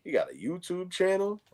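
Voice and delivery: high-pitched mock admiration; impressed chick. Chick sizing up YouTuber cousin, mock impressed. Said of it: "Chick met him on there, and she's like".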